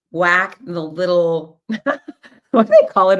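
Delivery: laughing. Real, not acted. Laughing while searching for word.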